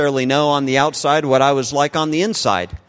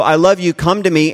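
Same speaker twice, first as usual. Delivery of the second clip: raised, urgent mock cry; imitated crying out; 4 semitones higher, 3 dB louder than usual. God crying out to the sinner, imitated urgent call. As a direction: call out with some urgency, short of shouting. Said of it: "at the top of his lungs cries".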